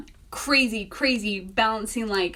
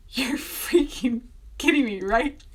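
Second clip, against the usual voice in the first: whispered disbelief; stunned whisper; 3 semitones higher than usual. Retold or imitated. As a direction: whisper it like you can't believe it. Disbelief at the rejection.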